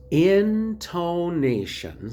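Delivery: intonation drawn out very slowly, rising at the end. Shown as a demonstration. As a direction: stretch out intonation slowly as a model. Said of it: "so it goes very slow".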